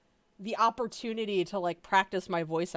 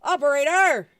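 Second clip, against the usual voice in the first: loud, higher yell; screamed; 7 semitones higher, 11 dB louder than usual. Acted. Monica screaming at the operator, loud. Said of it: "She just screamed at the operator".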